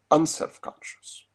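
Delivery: unself-conscious set apart with deliberate emphasis; stress on unself-conscious. Real, not acted. Lecturer flags his key term, stressing unself-conscious. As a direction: give unself-conscious clear, firm weight. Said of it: "I want to stress the word".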